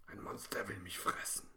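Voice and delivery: frightened whisper; a little girl whispering about the monster. A narrator's reading. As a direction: breathe it out without voice, scared. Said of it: "flüstert Lena".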